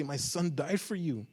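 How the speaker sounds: loud, high, pleading shout; a grieving father yells at the sleeping congregation; anguished yell. Acted. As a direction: yell it at the people who forgot. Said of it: "all you want to do is jump and yell and say".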